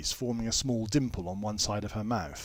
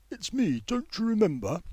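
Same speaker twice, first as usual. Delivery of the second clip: higher, worried and pleading; worried insisting; 10 semitones higher than usual. A narrator's reading. Tompkins begs his old friend to remember, worried insisting. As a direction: press him, anxious he has forgotten. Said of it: "insists Tompkins in worried tones".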